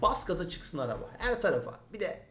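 normal talking voice

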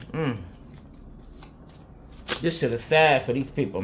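normal talking voice

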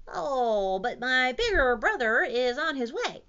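loud, swooping plea; pleading dinosaur. A narrator's reading. Rufus bargains with the T-Rex, loud hammed-up pleading. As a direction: plead it with exaggerated bounce.

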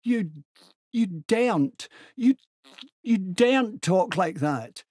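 high, loud, outraged stammer; stuttering. A narrator's reading. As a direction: stammer in shocked indignation, breaking off and restarting. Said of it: "he stuttered".

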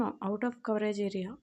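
very slow, even automated message voice; same phone message again. Retold or imitated. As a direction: stretch every word like the network recording. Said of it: "same".

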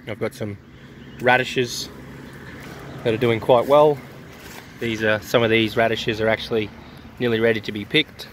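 blocked nose, sniffling between words; sniffly. Real, not acted. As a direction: talk through a stuffy, sick nose. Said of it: "Sorry about the sniffling and snorting and that, I'm currently sick".

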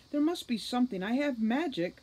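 put-on desperate fairy begging the boy for a way; desperate plea. A narrator's reading. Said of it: "she said desperately".

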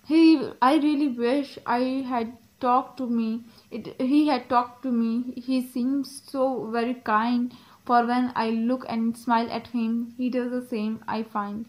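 slow, careful poem reading; poem read aloud. Acted. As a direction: read the verse slowly, phrase by phrase. Reads the poem aloud slowly. (धीमे, ठहर-ठहर कर कविता पाठ)

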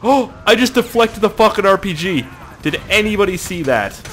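loud, high burst of amazement; thrilled shouting. Real, not acted. Gamer deflects a rocket, loud thrilled shouting. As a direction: crow about an incredible feat.

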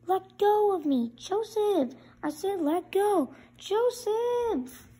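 fighting free of his grip; angry protest. Acted. Character struggling against Joseph.

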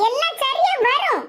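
slow, assured reply; confident reassurance. Acted. Answering a friend's doubt that it will work, confident. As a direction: answer the doubt firmly, drawn out.

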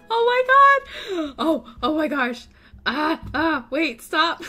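real thrilled outburst; excited shriek. Real, not acted. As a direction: squeal with total delight. Pugs burst into the house.

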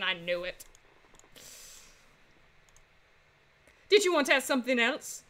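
lightly put-on voice of a grateful prisoner; lightly voiced Monsieur Rubino. Grateful prisoner handing a lawyer evidence, lightly voiced. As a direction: play a game character, grateful then indignant.

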